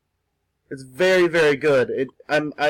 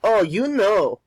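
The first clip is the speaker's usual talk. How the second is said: a clumsy mock Asian accent, pitched higher; hammed-up Asian accent, deliberately bad; really bad Asian accent; 5 semitones higher, slower than usual. Joking to viewers while drawing, bad Asian accent. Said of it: "That's my really bad Asian accent".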